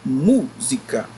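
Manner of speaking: música slowly, "mú" held and strong; stress on first syllable. Shown as a demonstration. Teacher demonstrates the antepenúltima, slow música with strong "mú". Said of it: "é a sílaba mais forte".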